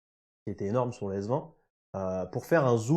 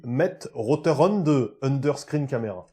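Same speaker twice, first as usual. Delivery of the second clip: mock Dutch accent; 4 dB louder, slower than usual. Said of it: "apparemment, on dit".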